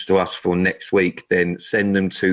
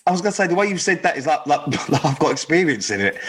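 laughing; 5 semitones higher, faster than usual. Real, not acted. Laughing at the host's remark.

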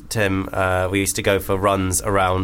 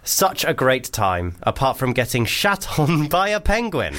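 put-on South African accent; 2 semitones higher than usual. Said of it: "that's a good South African accent".

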